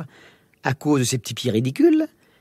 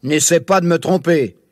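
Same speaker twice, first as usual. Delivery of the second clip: monster sneer. Acted. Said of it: "ricana le monstre au loin".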